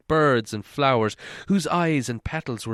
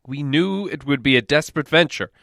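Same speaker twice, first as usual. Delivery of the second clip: proud dwarf lord making promises; Thorin; 2 semitones higher, 5 dB louder than usual. Acted. Thorin assuring Bilbo of his share, louder and stately.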